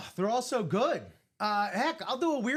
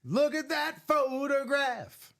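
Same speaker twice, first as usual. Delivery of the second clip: high, slow fancy voice; drawn out like a snooty art critic; mock posh voice; 7 semitones higher, 3 dB louder, slower than usual. Mocking the word photoed.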